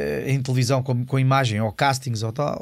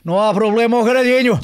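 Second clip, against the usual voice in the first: louder, higher mock professor outburst; loud mock retort; 8 semitones higher, 8 dB louder than usual. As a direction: blurt it out loud as the old professor. (resposta alta e brincalhona do professor)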